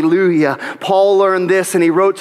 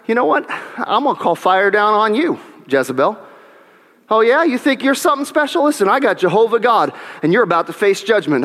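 mock swagger, pitched up; cocky threat; 4 semitones higher than usual. Preacher pretending to taunt Jezebel, mock cocky. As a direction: taunt like a smug prophet. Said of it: "I say".

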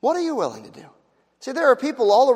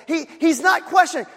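emphatic cry; 8 semitones higher than usual. Real, not acted. Preacher hammering the leper's point, high "not".

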